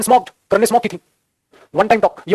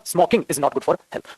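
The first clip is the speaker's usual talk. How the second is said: slow student answer; 3 semitones lower, 6 dB quieter, much slower than usual. Pretend. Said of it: "तो आपने बोला".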